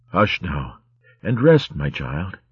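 put-on gentle, hushed old mouse. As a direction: lull her to rest tenderly. Abbot soothes dying Romska.

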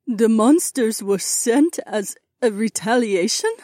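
high, slow, dismayed question; Ji, gasping. A narrator's reading. Wife grasps why monsters came, shocked. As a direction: ask it in a high, shocked woman's voice. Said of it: "Ji gasped quietly".

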